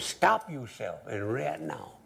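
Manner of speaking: high, slow order to the band; telling the band off. Retold or imitated. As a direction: command the band to stop. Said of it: "So he told the band".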